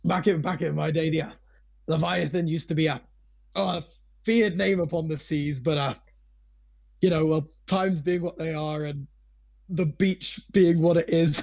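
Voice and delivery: put-on a light pirate accent creeping in; pirate twinge. Old pirate reminisces to visitors about his seafaring days, slight pirate accent. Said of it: "you can hear a bit of a pirate twinge".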